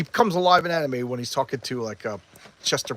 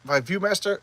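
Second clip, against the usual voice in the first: retold eager, higher-pitched invite; mildly hammed-up show-off enthusiasm; excited invitation; 4 semitones higher than usual. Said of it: "he's all excited".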